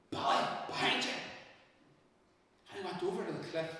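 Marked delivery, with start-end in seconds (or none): 0.1-1.1 hushed, voiceless call; breathy, eerie warning; mysterious calling voice. A narrator's reading. The mysterious voice calls again.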